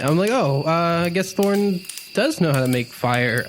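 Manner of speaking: ordinary talk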